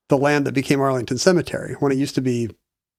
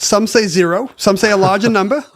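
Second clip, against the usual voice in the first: put-on Southern accent; 4 semitones higher, 3 dB louder than usual. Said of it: "I love how your Southern accent".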